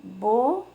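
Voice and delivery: "Bolo" as bo... lo, each syllable held alone; drawn-out "Bolo" with a pause after bo. Shown as a demonstration. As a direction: model "Bolo" in two separate beats for repeating. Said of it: "Repete aí em casa também".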